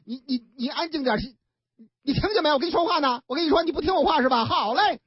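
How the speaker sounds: put-on fast, sharp nagging at a crying baby; irritated scolding. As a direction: lose patience with the baby. 王姑娘呵斥哭闹的婴儿. (不耐烦地冲孩子发火)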